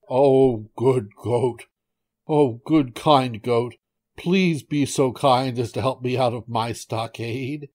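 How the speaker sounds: lightly acted begging; pleading tiger. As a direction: beg in short emphatic appeals. Trapped tiger begs goat for help.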